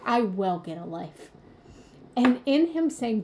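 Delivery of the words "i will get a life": sassy comeback. Retold or imitated. To her partner after he said get a life, a sassy retort. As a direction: toss it back with a little sass. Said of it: "my inner child's little sassy remark".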